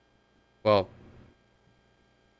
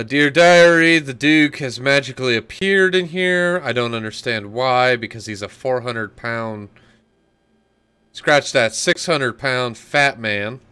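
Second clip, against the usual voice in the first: dramatic diary reading; 7 dB louder than usual. Pretend. Player mock-reads a diary aloud.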